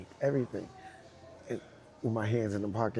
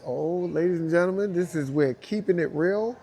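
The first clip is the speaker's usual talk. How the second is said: louder, higher announcer to the crowd; raised-voice mock MC announcement; shocked host; 6 semitones higher, 5 dB louder than usual. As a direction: imitate a host hyping up a surprise. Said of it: "even the host was, like, shocked".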